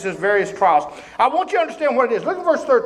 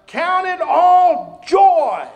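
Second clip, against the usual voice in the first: slow, loud, higher declaration; proclaimed; 5 semitones higher, 5 dB louder, much slower than usual. Acted. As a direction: stretch out count it all joy. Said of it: "He says".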